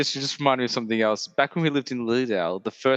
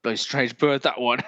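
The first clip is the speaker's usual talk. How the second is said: Roy Kent voice. Retold or imitated. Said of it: "Or like Roy Kent".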